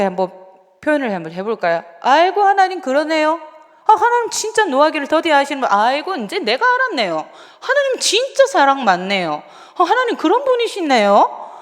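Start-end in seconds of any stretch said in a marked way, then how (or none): 2.0-11.5 sarcastic mocking. Shown as a demonstration. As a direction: gush over God with biting sarcasm. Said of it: "요나가 하나님을 완전히 비꼬는 투로 말하는 겁니다". (하나님을 비꼬는 과장된 말투)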